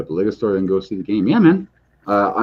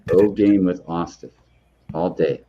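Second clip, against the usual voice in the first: whisper. Pretend. Joining the ASMR joke.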